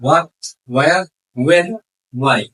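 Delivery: "what, where, when, why" all begun with w; silent H. Shown as a demonstration. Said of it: "এইটুকু এইচ এর উচ্চারণ হবে না".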